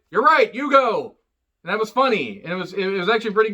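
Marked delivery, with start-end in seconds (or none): 0.1-1.2 mock pleading. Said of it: "She's like".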